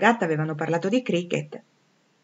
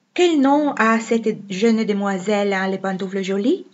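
slow, careful French pronunciation; obliging French; 3 semitones higher, 4 dB louder than usual. A narrator's reading. Lori shows Joe his French, speaking it obligingly. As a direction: show off your French, slowly and obligingly. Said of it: "disse Lori compiacente nel suo francese".

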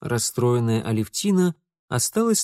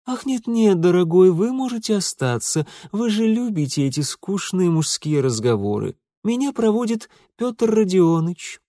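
breathy hollywood starlet; 7 semitones higher than usual. Acted. Anna flirtatiously dismissing husband.

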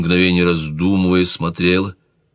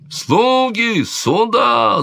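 much higher, urgent call for help; roaring for servants; much slower than usual. A narrator's reading. King calls servants to the fainted lady, urgent shout. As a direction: call them in a panic. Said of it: "заревел король Альфонсо".

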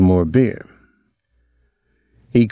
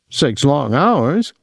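SIX LONG HOURS drawn out slowly and higher; slow, higher mock complaint on "Six long hours"; playful lament; 6 semitones higher, slower than usual. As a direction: stretch "Six long hours" high, lifting at the end. Willie's playful lament while kissing.

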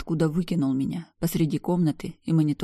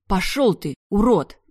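louder and higher insult yelled; shouting; 4 semitones higher, 6 dB louder than usual. A narrator's reading. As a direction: spit the insult out, loud. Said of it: "крикнула я".

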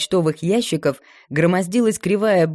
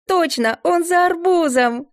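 calling out; 11 semitones higher than usual. Acted. Sashka shouts from kitchen.

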